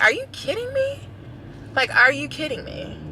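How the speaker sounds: high, incredulous are you kidding me; indignant disbelief. Retold or imitated. Outraged at rude neighbour.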